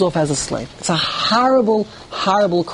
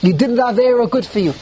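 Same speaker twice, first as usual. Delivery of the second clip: mock gloating; 5 semitones higher than usual. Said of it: "someone would chime".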